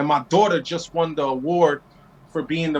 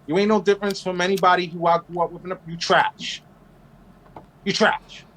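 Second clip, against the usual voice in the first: telling off rednecks. Retold or imitated. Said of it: "They be like".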